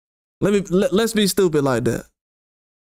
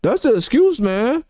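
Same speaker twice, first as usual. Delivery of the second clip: mock critic. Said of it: "let somebody say".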